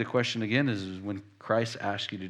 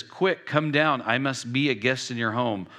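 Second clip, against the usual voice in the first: urgent command, hitting QUICK hard; very emphatic. Retold or imitated. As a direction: stress QUICK, then ease into the invitation. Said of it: "very emphatically, he says".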